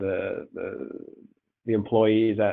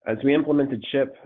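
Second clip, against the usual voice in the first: stuffy nose from a cold; blocked nose; 2 semitones higher than usual. Real, not acted. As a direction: talk through a congested head cold. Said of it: "I'm a little bit congested".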